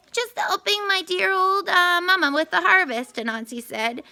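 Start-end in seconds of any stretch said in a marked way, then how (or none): 0.1-3.1 high, sugary innocent voice; sweet as pie to hide trouble; falsely sweet reply; very sweetly. A narrator's reading. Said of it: "very sweetly".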